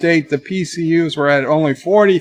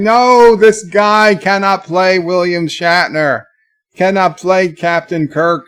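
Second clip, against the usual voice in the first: indignant protest, loud opening NO; mildly worked-up, retold outrage; retold anger; 4 semitones higher, 4 dB louder than usual. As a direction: object firmly, slowing on the name. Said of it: "And I was angry".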